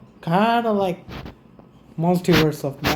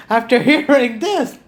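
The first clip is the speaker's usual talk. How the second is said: laughing outburst; 6 semitones higher, 4 dB louder than usual. Real, not acted. Streamer reacting to sad story.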